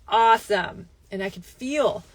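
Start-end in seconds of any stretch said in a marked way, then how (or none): 0.1-0.9 sarcastic awesome. Retold or imitated. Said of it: "I'm like".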